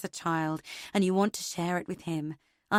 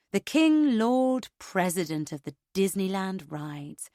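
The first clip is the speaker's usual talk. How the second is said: mock grandeur.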